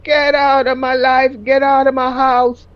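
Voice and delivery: shouting him out of the house; screaming. Retold or imitated. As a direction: retell throwing him out. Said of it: "I started screaming".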